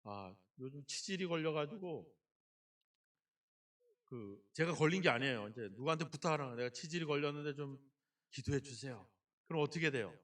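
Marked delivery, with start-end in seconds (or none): 0.0-9.1 confiding gossip. Pretend. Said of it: "사람들에게 얘기하면".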